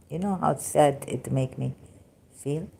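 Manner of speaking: ordinary delivery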